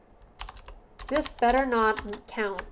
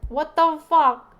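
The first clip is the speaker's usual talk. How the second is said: stunned outrage; 5 semitones higher, 7 dB louder, slower than usual. Real, not acted. Game insults player.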